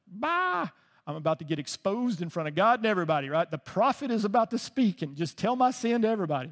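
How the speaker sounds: high yelp, then loud worried rush; mock panic. Preacher voices the girl fearing exposure, mock panic. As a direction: act out dread of public exposure. Acts the girl's dread of exposure.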